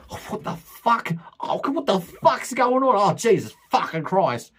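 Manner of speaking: high, whining mock outburst from the sideline; whinging coach. Coach moaning on the sideline as his team loses, in a high whining mock rant. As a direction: whine it like a moaning coach on the bench. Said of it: "just whinging and moaning".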